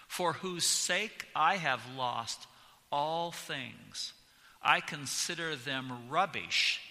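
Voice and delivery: "I" and "everything" punched loud, slowed phrases; preacher stressing key words of the verse; emphasized scripture reading. Shown as a demonstration. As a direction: lean hard on the marked words as you read. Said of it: "I have emphasized certain words to make them stand out".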